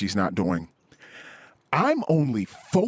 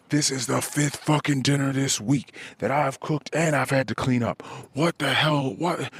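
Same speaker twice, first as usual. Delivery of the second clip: higher, exasperated mock rant; passive-aggressive complaint; 4 semitones higher than usual. Husband replays complaining to his wife about dinner, exasperated mock rant. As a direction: vent like a fed-up husband, half-performed. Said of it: "that passive-aggressive tone".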